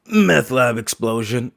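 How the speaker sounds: nonchalant. Retold or imitated. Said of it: "so nonchalantly".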